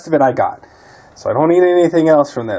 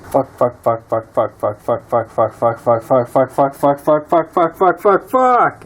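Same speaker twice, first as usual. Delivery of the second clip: string of curses; slower than usual. Real, not acted. Discovers cracked engine part.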